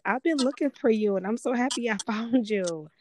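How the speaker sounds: lightly acted joyful gushing; happy fan. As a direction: retell it with delighted relief. Quotes a happy fan's message.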